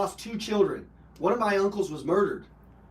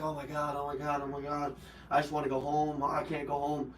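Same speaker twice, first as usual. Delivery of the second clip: crying; 2 semitones lower, 8 dB quieter than usual. Retold or imitated. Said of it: "I cried".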